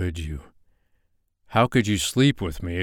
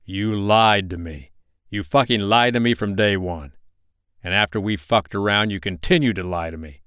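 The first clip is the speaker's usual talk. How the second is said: growing anger; 4 dB louder than usual. Acted. Betrayed boyfriend confronts her lies, building to angry loud. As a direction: let the rage build word by word. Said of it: "volume of his voice got louder with each word".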